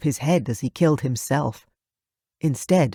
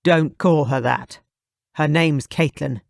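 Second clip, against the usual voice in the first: through gritted teeth. Acted. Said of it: "I gritted my teeth".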